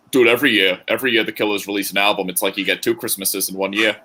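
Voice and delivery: a casual hint of a Boston accent. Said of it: "I don't know why I said that in a Boston accent".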